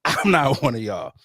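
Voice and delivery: full-voiced, smug declaration; proud boast. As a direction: say it proudly, chest out. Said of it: "wearing that badge proud".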